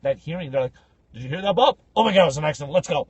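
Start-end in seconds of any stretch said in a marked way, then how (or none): 1.1-3.1 a touch of loud mock urgency; eager tow driver. Tow driver hearing an accident, lightly hammed-up urgency. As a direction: imitate an alert driver rallying his mate.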